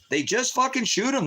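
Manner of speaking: the horror breaks through his voice; anguished repeat. Real, not acted. Father reliving his son being shot, voice jumping high.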